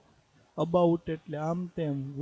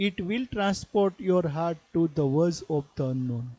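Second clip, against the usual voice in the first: slow, measured poetry reading; poem recitation; much slower than usual. Acted. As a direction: read the verse slowly, phrase by phrase. Reads poem lines aloud. (ધીમું કાવ્ય પઠન)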